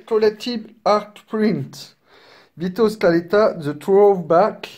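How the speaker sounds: real French accent on English. Real, not acted. Unboxer reading a print's title to viewers, French-accented English. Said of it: "excusez mon accent, quelque peu anglais".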